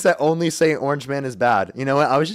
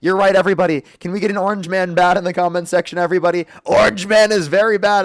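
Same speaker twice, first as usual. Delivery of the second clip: hamming up the caller's caricature; put-on voice. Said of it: "I'm done with the voice".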